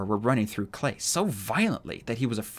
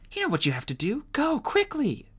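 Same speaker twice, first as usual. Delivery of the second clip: Tsunami voice; 14 semitones higher than usual. A narrator's reading. Tsunami urging.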